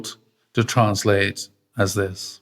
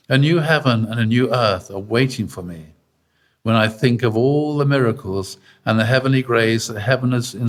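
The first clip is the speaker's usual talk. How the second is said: powerful voice. Retold or imitated. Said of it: "in his usual powerful voice".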